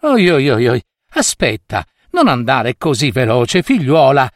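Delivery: mild mock panting call. Little woman hurrying after the girl, mildly panting call. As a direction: call out as if a little short of breath, but keep it understated. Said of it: "gridò ansimando la donnina".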